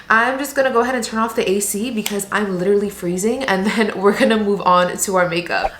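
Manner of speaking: slightly out of breath, talking between breaths; breathless after rushing around. Real, not acted. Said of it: "I'm, like, out of breath".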